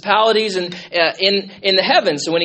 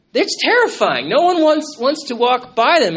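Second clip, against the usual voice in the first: intense preaching; 6 semitones higher, 6 dB louder than usual. Acted. Preacher describing fearsome demoniacs.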